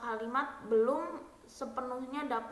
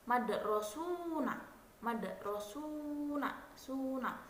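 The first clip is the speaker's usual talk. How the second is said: madrasuna said slowly, final suna stressed; stress on last syllable; 5 dB quieter, much slower than usual. Shown as a demonstration. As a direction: drag out madrasuna, lean on suna. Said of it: "Tekanan terdapat pada suku kata akhir". (tekanan pada suku kata akhir, pelan)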